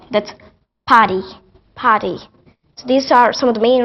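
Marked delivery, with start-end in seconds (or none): 0.9-2.2 British PARTY with the R dropped; British accent. Shown as a demonstration. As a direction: say party as "pah-tee", British style. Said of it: "if R is after a vowel, so they turn to drop it".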